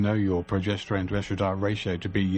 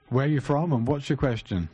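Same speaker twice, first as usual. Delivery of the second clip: speaking up; 3 semitones higher than usual. Real, not acted. Host repeats the question for a caller who can't hear, speaking up.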